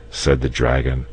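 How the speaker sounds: plain reading voice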